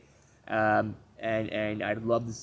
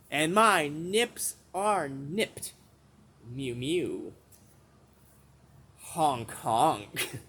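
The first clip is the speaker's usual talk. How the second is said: silly clown; much slower than usual. Acted. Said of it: "I'm going insane".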